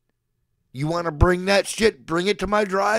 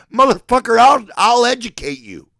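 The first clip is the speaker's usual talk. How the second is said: shouted threat; 5 semitones higher, 6 dB louder than usual. Real, not acted. Escalating rant to chat.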